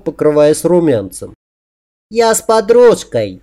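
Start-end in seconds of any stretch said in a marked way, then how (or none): 2.1-3.4 high, drawn-out fake girlish voice; falsetto squeak. A narrator's reading. He poses as a woman to customers, squeaky falsetto. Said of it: "пискнул я фальцетом".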